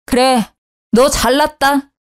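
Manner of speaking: plain reading voice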